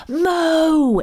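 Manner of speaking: a loud, high call across the woods. A narrator's reading. Nan rushing back through the woods to Mo, calling out. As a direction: shout his name to find him.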